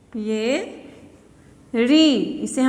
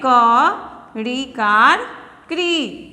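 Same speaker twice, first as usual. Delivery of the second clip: slow spelling out; 2 semitones lower, much slower than usual. Shown as a demonstration. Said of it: "अब इसे हम पढ़ेंगे".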